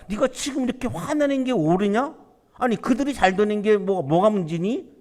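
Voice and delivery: reasoning rebuke, pitch lifting on the questions; gentle rebuke. Acted. God rebuking Jonah for his anger, mild reproach. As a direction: chide him like a patient father. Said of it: "책망하시는 거죠".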